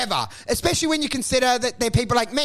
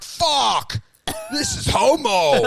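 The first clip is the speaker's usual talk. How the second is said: mock panicked outburst; 5 semitones higher, slower than usual. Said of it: "you're triggered going like".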